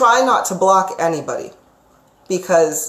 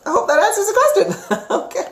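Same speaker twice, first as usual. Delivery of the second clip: laughing; 13 semitones higher than usual. Real, not acted. Amused after answering a client's question.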